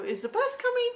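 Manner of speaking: pitched well up, worried; anxious high question. Retold or imitated. Asking the young boy about the bus, anxious and high. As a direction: ask it high and urgent.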